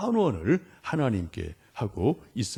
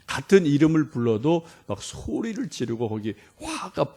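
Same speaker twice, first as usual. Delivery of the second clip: ordinary talk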